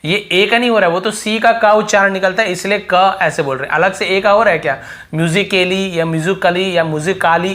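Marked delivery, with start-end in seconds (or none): 5.1-7.5 म्यूजिकली sounded three wrong ways, with "kay", "kuh", then "kaa"; wrong pronunciations. Shown as a demonstration. Teacher quizzing students with misreadings of म्यूजिकली, voicing the A differently each time. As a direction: run through म्यूजिकली as myuzi-kay-lee, muzu-kuh-lee, muzi-kaa-lee. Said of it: "ऐसे हो रहा है क्या?".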